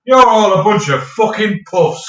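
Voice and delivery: slow, loud retold yell; a mild mock yell. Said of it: "and he went".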